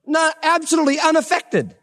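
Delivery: high, amazed emphasis; marveling. Real, not acted. Teacher marvels.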